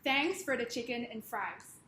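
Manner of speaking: slow, deliberate American accent demo; official American accent. Shown as a demonstration. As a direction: model it in a free, confident American accent. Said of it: "We were gonna try this sentence".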